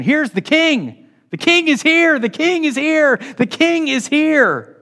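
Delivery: high, excited proclamation, each line drawn out; crowd's proclamation. Retold or imitated. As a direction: cry it out like a rising crowd. Crowd proclaims the king, building.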